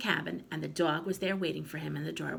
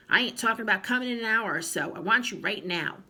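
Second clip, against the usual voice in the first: fast, louder nagging; impatient scolding; 4 semitones higher, 6 dB louder than usual. A narrator's reading. Grandma rushing the boy, faster and louder. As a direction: hurry him with irritation.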